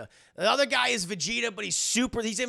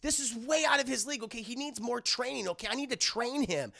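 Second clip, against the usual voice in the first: higher-pitched mock scolding; pissed-off retelling; 5 semitones higher than usual. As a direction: imitate her telling off the boss. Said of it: "because she's pissed. She's like".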